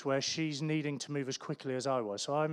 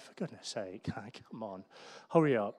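inward impatience; 4 semitones lower than usual. Retold or imitated. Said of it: "my smile on the inside".

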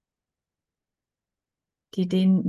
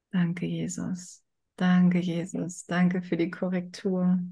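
slow, soft, grateful thanks; quiet prayer; 4 dB quieter than usual. Real, not acted. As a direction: murmur a heartfelt thank-you prayer.

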